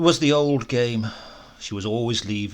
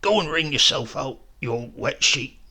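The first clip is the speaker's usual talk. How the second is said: croaking; 2 semitones higher than usual. Acted. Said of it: "he croaked".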